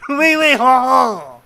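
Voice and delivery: high hammy French "oui oui, ha ha"; bad French accent. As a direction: overdo a French laugh. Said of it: "that bad at French accents".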